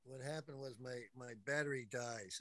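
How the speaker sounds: faint, distant voice; far away. Real, not acted. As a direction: speak from across the room. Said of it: "you sound so far away".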